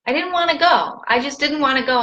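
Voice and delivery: mock reluctant whine; retold hissy fit. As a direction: mildly act out not wanting to go. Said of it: "I literally had a hissy fit".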